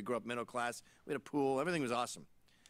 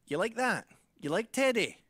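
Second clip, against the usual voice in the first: higher-pitched impression of the Scottish father; imitating dad; 8 semitones higher, 4 dB louder than usual. Dad needling his son's new girlfriend over a teddy bear, imitated. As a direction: play dad's blunt heckle, pitched up. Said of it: "my dad looked at her and he goes".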